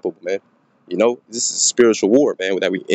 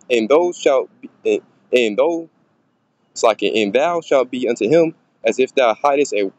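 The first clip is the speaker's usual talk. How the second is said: scripture reading. Acted. Reads scripture aloud.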